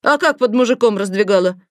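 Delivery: loud, coarse mocking yell; the doctor yelling crudely at the girl. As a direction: bark it rudely at the girl. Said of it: "заорала тётка".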